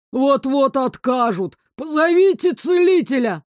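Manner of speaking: вой, поднимающийся выше и громче; истерично тянет и взвывает; нарастающий вой. A narrator's reading. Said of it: "выл третий". (мужик воет, требуя позвать целителя)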